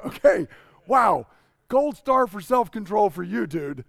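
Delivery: loud, high mock-impressed reaction; retold astonished outburst; wowed. Acting his amazed reaction to friend.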